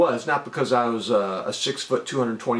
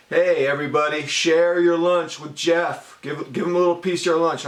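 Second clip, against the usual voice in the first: mock teacher announcement; 5 semitones higher than usual. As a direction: announce it to the whole class like a cheery teacher.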